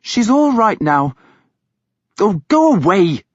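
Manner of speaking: peevish. A narrator's reading. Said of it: "This peevish command".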